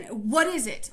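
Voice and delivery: mildly hammed-up nagging teacher; impatient teacher. Teacher pushing the counters around, mildly annoyed demand. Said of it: "she would kinda move 'em around again".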